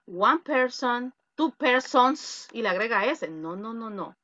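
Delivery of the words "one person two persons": "one person, two persons" slow, itemised; students' mistake. Retold or imitated. Teacher quotes students' plural error, slow "two persons". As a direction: draw out "persons" to show the added S. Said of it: "los alumnos a veces me dicen".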